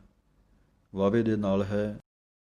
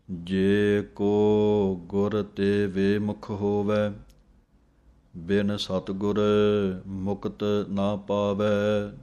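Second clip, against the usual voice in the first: scripture recitation; slower than usual. Shown as a demonstration. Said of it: "teacher recites the hymn line".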